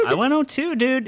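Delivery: high, whiny admission of defeat; mock whiny confession. Player mocks his own loss to friends, high and whiny. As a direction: whine it like a sulky kid.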